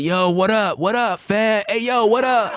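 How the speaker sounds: very high-pitched, rough street-talk voice. Imitating how women in Brooklyn talk: imitating rough-sounding women. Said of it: "These women be sounding too damn rough".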